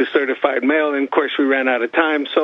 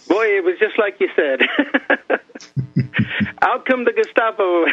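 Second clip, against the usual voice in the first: laughing; 6 semitones higher than usual. Real, not acted. Laughs around the remark.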